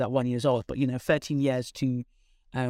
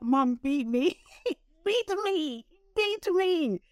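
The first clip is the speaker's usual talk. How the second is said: high, cracking plea to mum, half laughing; retold plea to mum to beat her, pitched high; desperate pleading; 12 semitones higher, much slower than usual. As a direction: beg your mum, voice climbing high. Begging mum after bad predictions.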